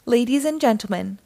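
mild showman's unveiling, slowing on the name; grand declaration. A narrator's reading. Ranger unveiling her cat sculpture, grand declaration. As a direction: declare it slowly to an audience. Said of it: "declared Ranger Katie".

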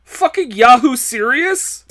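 loud all-caps review; all caps read loud. Retold or imitated. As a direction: read it like shouted capitals. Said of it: "All capital letters".

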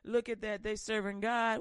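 a lightly voiced demon, sneering at worshippers; mocking spirit voice. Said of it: "is a familiar spirit".

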